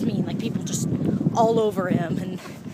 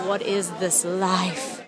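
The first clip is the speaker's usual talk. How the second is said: low, flat; 4 semitones lower, slower than usual. Shown as a demonstration. To herself after meeting the actor, low deadpan repeat. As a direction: lower and slow, flat disbelief. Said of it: "said twice, differently".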